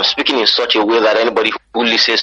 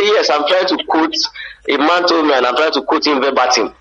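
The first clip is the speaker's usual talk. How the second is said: raised-pitch Nigerian English; Nigerian accent; 7 semitones higher than usual. Acted. Nigerian abroad repeating himself to a baffled listener, Nigerian accent. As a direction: explain it earnestly in a Nigerian accent. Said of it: "You say".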